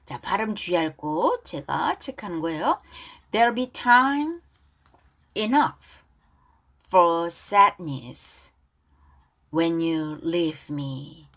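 deliberate read-along with pauses; pronunciation model. Shown as a demonstration. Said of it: "발음 따라하기".

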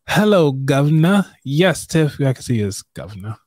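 a lightly put-on bad English accent; horrible British accent. Mock British accent greeting Tiff as future governor. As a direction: greet Tiff like a posh Brit, badly. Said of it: "I know it's a horrible accent".

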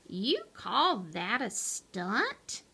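slow, quiet unimpressed sneer; bored scoff. Acted. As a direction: sound utterly bored.

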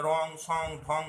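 "রং, সং, ঢং", all ending in ng; anusvar as ng. Shown as a demonstration. Teacher recaps the examples for learners, anusvar demo. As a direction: list "রং, সং, ঢং" with nasal ng endings. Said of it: "এগুলো যেমন বললাম".

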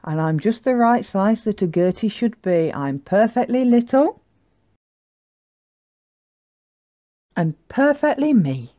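lightly acted happy self-acceptance; smiling little yak. Little yak content with her size, smiling. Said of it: "the little yak smiled".

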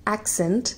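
एक्सेंट with stress on the first syllable, AK-sent; accent said slowly. Shown as a demonstration. Teacher introducing the noun एक्सेंट, stressing AK. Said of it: "शुरुआत करते हैं एक्सेंट से".

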